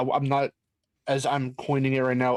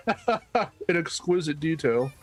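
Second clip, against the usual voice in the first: slow countdown narrator impression; Chills; 3 semitones higher, slower than usual. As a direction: imitate a drawn-out narrator, amused. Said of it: "Oh no, Chills, what did you do next?".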